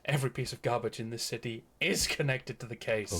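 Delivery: insist, with the weight on "is"; stress on IS. Acted. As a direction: lean firmly on "is". Insists, contradicting the partner's denial.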